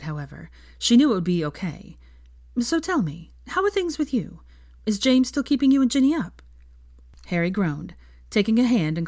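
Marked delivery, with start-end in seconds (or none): 2.6-6.4 higher, bright friendly question; Hermione, changing the subject brightly; young woman voice. Acted.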